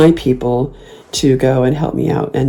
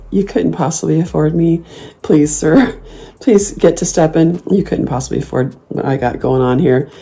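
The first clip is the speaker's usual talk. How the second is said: sassy brush-off. Retold or imitated. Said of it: "if I'm being really sassy".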